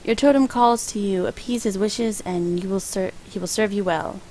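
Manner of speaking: half-hearted island shaman voice; Jamaican accent. Acted. Gamer reading the shaman's prophecy in a light Jamaican accent. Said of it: "a Jamaican accent".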